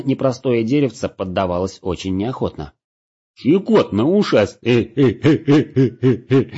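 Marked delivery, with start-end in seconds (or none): 3.4-6.5 tickled laughter. A narrator's reading.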